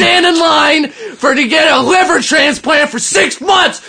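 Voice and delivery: mock shouting. Heated mock debate.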